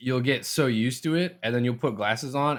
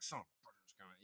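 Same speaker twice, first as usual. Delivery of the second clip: retold upset; 2 semitones lower, 26 dB quieter, faster than usual. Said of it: "she could tell I was real upset".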